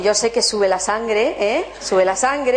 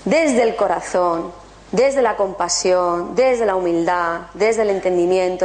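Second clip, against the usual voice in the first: gentle emphasis; 3 semitones lower than usual. Shown as a demonstration. Guide to the audience naming the tools, slow and gentle. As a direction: lay each phrase down calmly. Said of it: "listing the tools slowly".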